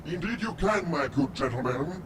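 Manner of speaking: lightly hammed-up refined gentleman; mock gentleman voice. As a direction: tease them with a put-on genteel air. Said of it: "I don't really talk like this".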